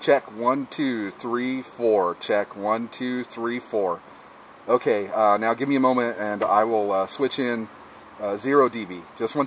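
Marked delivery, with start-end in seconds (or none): 0.0-4.0 counting through six dB of radio compression; squashed, punchy radio check; compressed ham radio signal; compressed mic. Shown as a demonstration. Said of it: "six decibels of compression".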